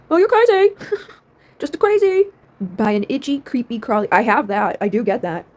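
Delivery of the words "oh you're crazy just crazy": mocking dismissal. Mocking doctors who dismiss her.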